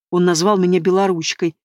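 ordinary delivery, nothing marked

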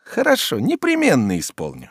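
biting, sarcastic agreement; caustic. Acted. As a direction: promise it with venom. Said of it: "едко отвечал Обломов".

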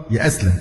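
يأسلم said ya'aslam, with a vowels; mistaken verb form. Shown as a demonstration. Teacher challenging a common mistake, يأسلم said ya-aslam. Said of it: "غلط".

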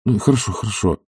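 caustic. Acted. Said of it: "едко отвечал Обломов".

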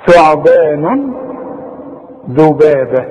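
ثعبان slow with the tongue between the teeth. Shown as a demonstration. Teacher models the tongue-out letters. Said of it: "بنطلع فيهم لساننا".

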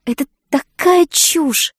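high, loud, drawn-out outburst; frustrated exclamation. A narrator's reading. Josie explodes at Samuel's stubbornness, loud and high. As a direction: throw it out in exasperation. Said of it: "воскликнула я".

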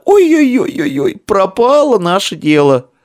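high, slowed lament; despairing wail.

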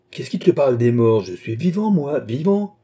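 proteste plus fort, vexé; «Je suis vivant» lancé haut, comme une évidence blessée; protestation indignée. Acted. Mathias proteste, se croit vivant. (le vivant s'indigne, voix montée)

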